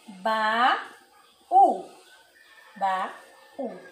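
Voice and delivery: baú with the last ú stressed. Shown as a demonstration. Teacher models the acute accent on u: stressed ú. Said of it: "ele muda o som da vogal".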